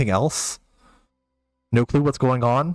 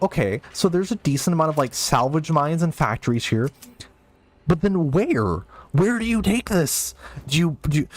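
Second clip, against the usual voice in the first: worked up; 3 semitones higher than usual. Retold or imitated. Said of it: "I'm getting worked up".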